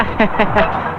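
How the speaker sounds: soft nervous chuckle; nervous laugh. Acted. Man nervously laughing at two hulking thugs, a soft chuckle. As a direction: laugh to cover unease.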